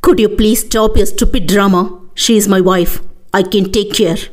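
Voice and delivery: understated slow menacing command; roaring voice. Acted. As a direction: bite out each English word slowly. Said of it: "கர்ஜனையான குரலில்".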